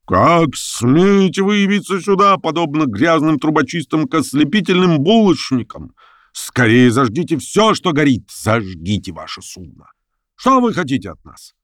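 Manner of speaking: high, strange theatrical ranting voice; wild carnival reveller. Acted. Reveller in red coat scolds the newcomers, wild and theatrical. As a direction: play a drunk masked madman mocking the strangers. Masked reveller harangues the boat.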